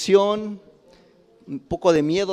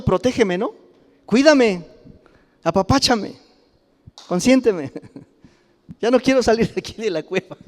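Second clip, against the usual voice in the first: higher, wheedling plea to be coddled; mock pleading; 5 semitones higher than usual. Preacher mimics Elijah begging God for comfort, lightly whiny. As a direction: beg like a spoiled child. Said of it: "de alguna manera estaba diciendo".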